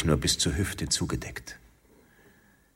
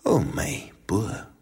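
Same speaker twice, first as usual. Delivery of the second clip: high, slow fond Bavarian woman; lightly voiced amused sweetheart; 6 semitones higher, slower than usual. A narrator's reading. She answers her lover, amused, in a slow higher dialect voice. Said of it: "belustigtes Lachen".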